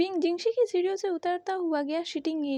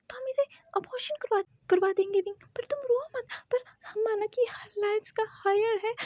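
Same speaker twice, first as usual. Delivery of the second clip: anxious soothing; 6 semitones higher than usual. Acted. Uncle soothes crying Wing.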